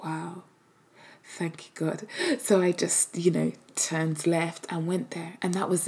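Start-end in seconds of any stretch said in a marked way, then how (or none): 0.0-2.1 grateful relief. Retold or imitated. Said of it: "I was just like".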